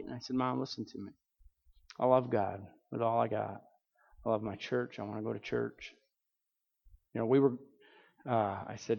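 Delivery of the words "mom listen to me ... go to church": earnest plea. Retold or imitated. Son gently pleading with his mother.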